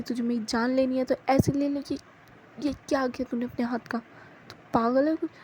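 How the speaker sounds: loud worried scolding of a reckless friend; scolding shout. Acted. Jasmine yells at Kashish over her hurt hand, loud scolding. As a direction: yell at her like you're scared for her. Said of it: "उस पे चिल्लाती है".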